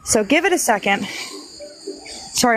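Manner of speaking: winded after hurrying outside; breathless, catching air between words; out of breath. Real, not acted. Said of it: "I'm out of breath".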